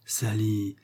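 tender. Acted. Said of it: "demanda Millicent d'un air tendre".

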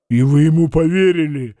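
mildly wounded reproach; reproachful. A narrator's reading. Hoof commissioner reproaches Ostap, hurt. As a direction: reproach him for believing it. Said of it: "с упрёком сказал уполномоченный по копытам".

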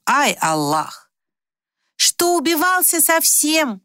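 high, slow, lamenting cries; fretting Turkish woman. Acted. Feride laments over the injured guest, high and slow. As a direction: wail it like a worried old mother.

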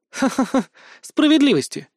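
high, loud scornful laugh; sneering high laughter; mocking laugh. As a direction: laugh the word away with contempt. Girl mocks his word justice.

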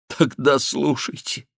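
медленно, выше, срывающимся голосом; сквозь сдерживаемые слёзы; с рыданием. A narrator's reading. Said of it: "с рыданием произнёс барон". (с рыданием)

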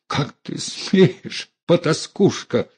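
put-on high, outraged squeal of an old lady; взвизгнула; shrill squeal. A narrator's reading. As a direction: squeal it out in shock. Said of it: "взвизгнула она".

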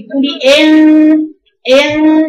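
ان said loud and slow with an open jaw; wrong ghunna. Shown as a demonstration. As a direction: show the mistake in ان by opening the jaw. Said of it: "شوفي الخطا".

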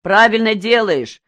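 loud, high call across the barracks; shouted cheer from a bunk; shouting. A narrator's reading. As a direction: yell the approval out. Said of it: "закричал Пузан".

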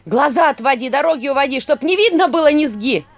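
loud chanted spell, voice cracking; breaking voice. A narrator's reading. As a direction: chant the curse until it breaks. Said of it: "Её голос срывался".

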